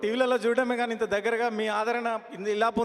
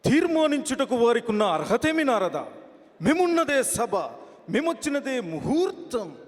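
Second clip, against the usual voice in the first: fiery film dialogue. Acted. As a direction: declaim it like a haughty screen villain. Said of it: "ఆవేశంతో dialogue చెప్పిన". (ఆవేశంతో cinema dialogue)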